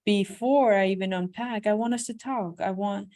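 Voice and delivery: tender husband. Acted. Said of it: "That's more like it, honey".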